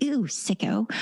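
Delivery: whispered mock "ew sicko"; mock disgust. Mocking the partner who shares a fantasy, whispered disgust. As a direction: breathe out a disgusted little jab. Judging reaction to be avoided.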